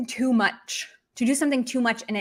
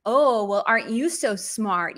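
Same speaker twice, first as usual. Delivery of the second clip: sarcastic mock-admiring jab. Shown as a demonstration. Teacher acting out a scolding of a smarty pants, sarcastic. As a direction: lay on the sarcastic intonation. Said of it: "see that sarcastic intonation".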